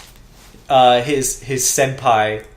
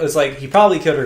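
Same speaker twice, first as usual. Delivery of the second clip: "probably" pushed hard and fast, leaning on the word; stressing "probably" to make clear nothing is proven; 4 dB louder, much faster than usual. Shown as a demonstration. Co-host correcting the recap, stress on "probably". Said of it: "We don't know he killed her".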